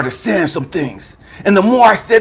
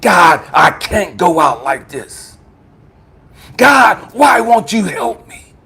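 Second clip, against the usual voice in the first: desperate plea to God; slower than usual. Retold or imitated. Father pinned in bed begs God, desperate plea. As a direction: build from weary appeal to crying out.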